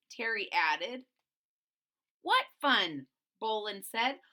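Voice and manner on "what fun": louder dismissive question; scoffing. Acted. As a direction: scoff at the idea. Boland scoffs.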